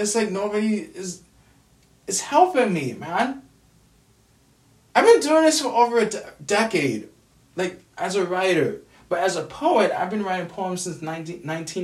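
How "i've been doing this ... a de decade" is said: louder and higher, fed up and fast; frustrated outburst. Real, not acted. Venting to viewers that nobody helps him, frustrated loud outburst. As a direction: burst out in real frustration. Angry rant about no help.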